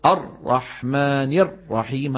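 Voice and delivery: "الرحمن الرحيم" with a clipped hard ra, slow; hard tight ra. Shown as a demonstration. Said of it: "هذا كمان ما بيصح". (راء شديدة محصرمة)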